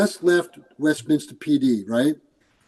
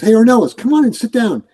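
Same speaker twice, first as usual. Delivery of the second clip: high, louder, booming welcome as the sheriff; retold sheriff's hearty greeting; 7 semitones higher, 5 dB louder than usual. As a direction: imitate a big boss greeting a visitor. Sheriff greets him, voiced.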